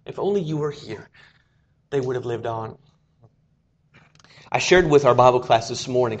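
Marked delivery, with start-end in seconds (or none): 0.1-2.8 soft, hushed prayer of loss; quiet grieving prayer. Acted. Mourners praying to Jesus in grief, softly hushed. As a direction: breathe it out like a private prayer. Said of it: "has whispered, has prayed these words".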